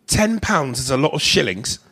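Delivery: hammed-up British accent. Shown as a demonstration. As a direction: play at sounding British. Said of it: "in a British accent".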